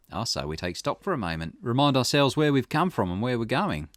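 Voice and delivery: lightly voiced investigator, taking stock; Richter. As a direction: reason it through as a detective, lightly acted. Voices Richter reasoning with client.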